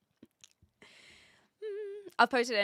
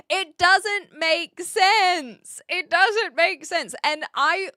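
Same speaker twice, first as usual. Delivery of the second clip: exasperated; 6 semitones higher, 8 dB louder, much slower than usual. Real, not acted. Exasperated at repeated question.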